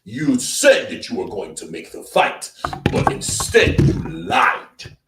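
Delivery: a hint of Don Charles preaching the charge; Don Charles impression. Streamer mimicking Don Charles accusing the champion, slow and loud. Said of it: "Like Don Charles".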